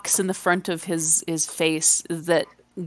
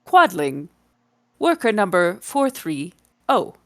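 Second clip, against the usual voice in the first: robot voice. Acted. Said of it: "its eyes do this number and says".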